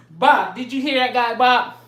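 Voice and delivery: mock shocked guy. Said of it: "That's how they talk".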